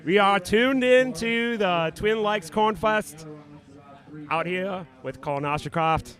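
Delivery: hammed-up Aussie announcer, slow; Australian accent. Commentator calling the run in mock Australian accent. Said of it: "try to do our Australian accents".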